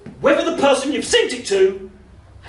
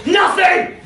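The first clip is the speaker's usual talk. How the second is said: mock exasperated shout; 8 semitones higher, 4 dB louder than usual. Exasperated result.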